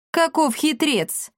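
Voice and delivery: slow, high marvelling; mock admiration. Akatsiy marvels at the cat's cunning, slow. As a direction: draw out the sly praise.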